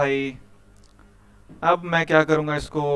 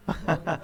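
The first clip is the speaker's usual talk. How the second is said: brief, light laugh; a quick chuckle between sentences; short chuckle; 4 dB quieter than usual. Real, not acted. Teacher amused by students asking for files, short chuckle.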